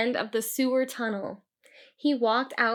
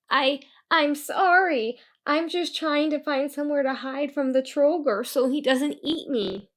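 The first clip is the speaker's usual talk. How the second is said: trembling voice; 5 semitones higher, 5 dB louder than usual. Acted. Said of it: "with a trembling voice".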